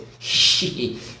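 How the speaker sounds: imitated derisive snicker; mock scoffing. Opponents sneering at the builders, mock scoffing. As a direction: let out a scornful hiss of laughter. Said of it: "업신여기면서 비웃어서".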